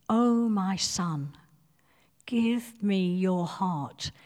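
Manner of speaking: slow, pleading, the last words whispered. Acted. Preacher voicing God pleading with his son, whispered. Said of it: "Can't you just hear the passion?".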